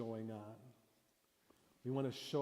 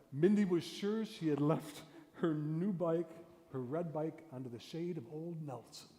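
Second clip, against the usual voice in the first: story reading; 3 semitones higher than usual. Shown as a demonstration. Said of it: "the second one".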